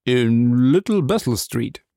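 slow, drawn-out character voice; reluctant answer. Acted. Suspect naming his street to the captain, reluctantly. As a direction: give the street name slowly.

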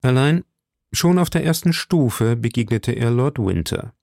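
plain reading voice

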